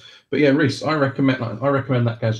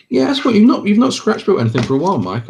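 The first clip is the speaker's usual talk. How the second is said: high-pitched teasing; squeaky excited teasing; 9 semitones higher, 5 dB louder than usual. Real, not acted. Teasing a friend.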